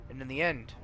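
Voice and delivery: put-on grand old-world narrator setting the scene; epic lore narration. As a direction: read it like an ancient chronicle. GM reads epic intro lore.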